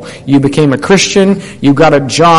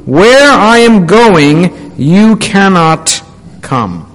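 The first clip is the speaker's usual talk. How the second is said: scripture reading; 2 semitones higher than usual. Acted. Preacher reading John to the congregation, solemn scripture reading. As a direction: read the passage out with weight.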